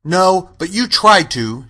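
put-on scolding child's comeback; sharp retort. A narrator's reading. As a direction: answer back indignantly, drawn out. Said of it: "she retorted".

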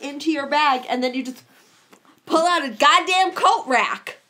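slow visual telling. Shown as a demonstration. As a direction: reach in slowly, then land the coat rack. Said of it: "I was trying to do a visual thing".

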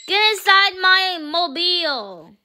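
playful villain command. Pretend. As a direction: order them in like a pretend bad guy. Playing clown villain ordering captives.

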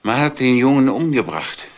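stunned, loud announcement of a death; shocked outcry. Acted. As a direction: call the terrible news out to the house. Uncle calls out the murder news.

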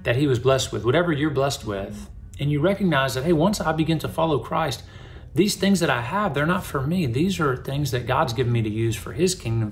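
normal talking voice

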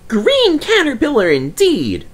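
high, huffy indignation; Percy offended at being called a caterpillar, fuming. A narrator's reading. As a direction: spit it out, offended. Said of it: "fumed Percy".

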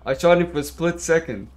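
angry player protesting; frustrated yell. Real, not acted. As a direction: blow up at the game. Repeats complaint louder.

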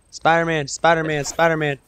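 urgent call-out. Real, not acted. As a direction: alert your teammate fast. Calling out enemy to teammate.

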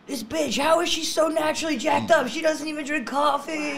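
high, loud, hammed-up outburst; mock amazed fan. Fans marveling at the comic, high loud mock amazement. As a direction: rant like an overexcited fan.

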